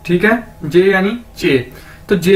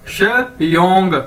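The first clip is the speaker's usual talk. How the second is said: slow drilled syllable; much slower than usual. Shown as a demonstration. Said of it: "एक्स आई ओ एन जी क्या बन जाएगा".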